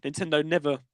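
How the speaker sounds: words broken by a burp. Real, not acted. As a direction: burp mid-sentence. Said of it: "sorry, I'm burping a lot here".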